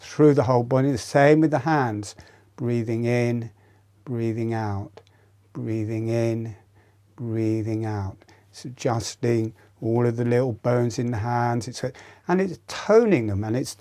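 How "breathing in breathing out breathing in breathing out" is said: softly dropped, measured guiding voice; quiet, paced breathing instruction; breathing cue. Shown as a demonstration. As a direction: cue each breath gently, letting it settle. Counts out breaths while demonstrating.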